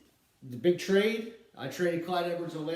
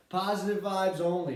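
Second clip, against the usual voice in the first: a light take on El Prez, pitched higher; El Prez impersonation; 5 semitones higher, 4 dB louder than usual. Retold or imitated. Podcast host doing his best El Prez slogan, lightly voiced. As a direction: toss off the slogan like El Prez would. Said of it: "trying to do my best El Prez impersonation".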